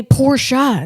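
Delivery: "Porsche" said as POR-shah, slowly; drawn-out two-syllable "Porsche". Shown as a demonstration. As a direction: say "Porsche" with a clear shah ending. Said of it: "that's how he says it".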